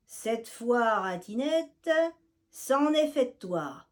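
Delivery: loud, high threatening yell; wicked cats shouting at the mouse. Acted. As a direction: bellow the threat. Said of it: "crient les méchants chats".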